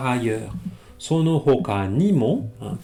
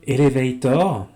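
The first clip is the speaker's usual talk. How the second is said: elevator said with a French accent, stress on the last syllable; 5 dB louder than usual. Shown as a demonstration. Teacher mocking a French accent on elevator for students. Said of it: "pire, hein, avec un accent français".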